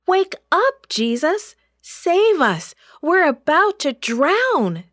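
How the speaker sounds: high, urgent plea for rescue; desperate yell. A narrator's reading. Terrified disciples begging Jesus to save them, desperate yelling. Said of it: "they yelled".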